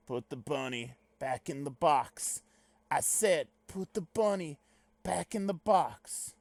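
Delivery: slow mock-Southern drawl; Cameron Poe's Southern accent. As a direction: imitate a Southern action hero, drawing words out. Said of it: "his fucking southern accent in that movie".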